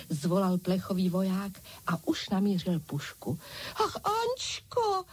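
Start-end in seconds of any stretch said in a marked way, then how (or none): 3.7-5.0 high slow pleading cry. A narrator's reading. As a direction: wail it, frightened. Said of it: "křičela malá Francouzka". (vysoký prosebný výkřik)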